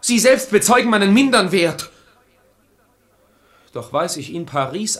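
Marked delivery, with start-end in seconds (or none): 0.0-1.9 louder, sharp rebuke; offended lover rejecting her words, loud; angry. Acted. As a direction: cut her off in anger.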